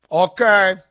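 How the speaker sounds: put-on loud, thickly accented Hispanic truck driver; thicker Hispanic accent. Driver calling at night, thick Hispanic accent. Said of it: "an even thicker accent".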